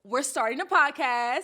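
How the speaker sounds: loud, high singsong squeal of news; excited announcement. Acted. Announcing their podcast to live followers.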